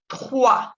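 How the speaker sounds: "Trois" ending on an open wa, no S; silent S. Shown as a demonstration. Teacher showing French three, silent S. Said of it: "tampoco se pronuncia la S".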